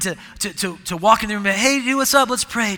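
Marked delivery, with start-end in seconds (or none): 1.6-2.8 loud, high casual bro voice; hammed-up dude calling out; mock dude greeting, much higher and louder. Mocking a showy prayer opener.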